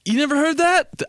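high-pitched mock amazement, rising; incredulous dad. Dad amazed his son doesn't know, high incredulous mock voice. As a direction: imitate dad, astonished, pitch shooting up. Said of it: "And he'd be like".

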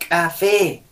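"Café" con K explosiva; K marcada. Shown as a demonstration. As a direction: exagera el golpe de la K en "Café". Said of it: "Con la K". ("Café" con ka fuerte)

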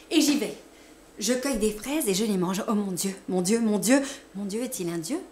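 anguished outcry. A narrator's reading. Narrator possessed, crying out to God in anguish.

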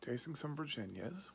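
talking around pipe stem; pipe in mouth. Real, not acted. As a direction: lips clenched on pipe. Seen 0: Pipe stem held in mouth throughout the words; no pipe in R frames.

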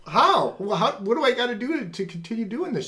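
high-pitched, excited retold questioning; eager amazement. New believer asking wife how to hear God, eager. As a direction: press for answers, loud at first, voice up high.

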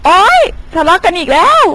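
weary exasperation; exasperated sigh. Acted. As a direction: roll your eyes at their fighting. Exasperated at quarrel.

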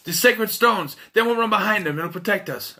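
a hint of a cocky sidekick reassuring his companion; Jonathan, confident. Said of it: "and Jonathan says".

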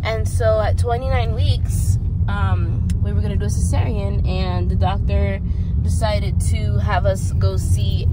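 talking while the car bounces; on a bumpy road. Real, not acted. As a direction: voice jolted by a bumpy ride. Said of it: "This road is really bumpy".

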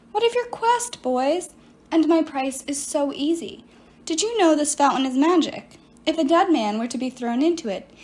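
lightly voiced sorceress, self-pitying; a hint of a wronged enchantress pleading her case; sorceress Medea. Medea explains herself to Piper, lightly voiced silky sorceress.

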